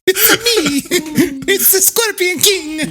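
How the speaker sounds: high, slow, hammy announcement; dramatic movie voice. Pretend. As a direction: announce yourself like a movie hero. Mock announcing movie character.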